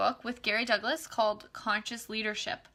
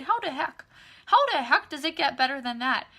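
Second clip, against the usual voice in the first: mock childlike wonder, louder; a hint of a little kid; 4 semitones higher, 6 dB louder than usual. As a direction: replay it like a kid. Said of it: "like a little kid".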